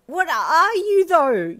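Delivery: high, loud startled cry; a frightened traveller demanding an answer; cried. A narrator's reading. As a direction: cry it out in alarm. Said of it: "you cried".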